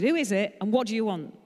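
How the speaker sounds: loud, gruff shout from behind the door. Acted. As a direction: shout it at the stranger ringing the bell. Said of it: "a bloke shouted".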